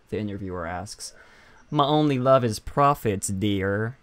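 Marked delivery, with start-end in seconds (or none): 1.7-4.0 lightly voiced sly pirate; a hint of a flirty pirate. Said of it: "that voice that you came up with".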